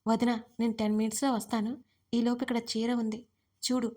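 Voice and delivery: ordinary delivery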